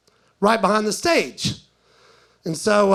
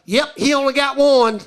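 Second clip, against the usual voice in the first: lightly voiced front-row girls, pitched up; mimicked audience members; 4 semitones higher, 4 dB louder than usual. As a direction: chime in higher, matter-of-fact confirmation.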